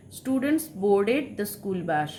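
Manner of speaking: very slow, word by word; slow dictation. Shown as a demonstration. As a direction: read it slowly for the class to copy. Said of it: "example sentence". (ধীরে ধীরে পড়ে শোনানো)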